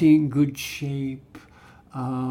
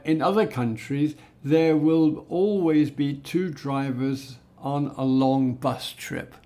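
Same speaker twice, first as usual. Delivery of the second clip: written English. Shown as a demonstration. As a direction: read it out evenly, like a formal written statement. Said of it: "in written English, I would probably write".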